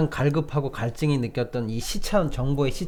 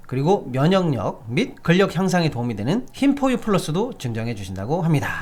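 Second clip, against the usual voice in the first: upbeat sales pitch read; hard sell ad. Acted. Reads a live ad.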